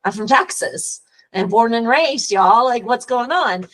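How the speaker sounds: a hint of Texas twang, y'all punched; Texas accent. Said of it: "with my Texas accent".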